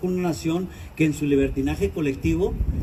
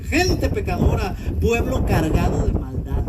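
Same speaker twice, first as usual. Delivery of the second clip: slow, lamenting indictment; grieving lament; 3 semitones higher, 3 dB louder than usual. Retold or imitated. Pastor reading God's lament to the congregation, slow grieving. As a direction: drag the words out in sorrow. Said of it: "Dios dice gimiendo".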